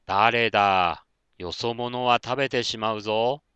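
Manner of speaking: a hint of a big snake threatening the frightened fox; menacing snake. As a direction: play the big snake warning the stranger off, slowly. Snake threatens intruder Konta.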